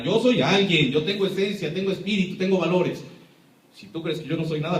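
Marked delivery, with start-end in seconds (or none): 0.0-3.0 louder, proud claim of self-worth; defiant declaration. Real, not acted. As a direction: stand tall and declare it. Defiant self-affirmation after meek quote.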